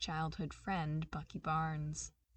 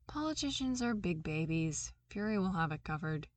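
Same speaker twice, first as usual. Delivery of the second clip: nonchalantly. Acted. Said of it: "Maria said nonchalantly".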